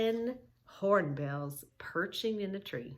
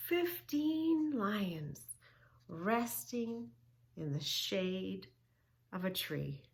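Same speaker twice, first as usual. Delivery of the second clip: soothing fade; slower than usual. Shown as a demonstration. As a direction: lull them to rest. Fading slow ending.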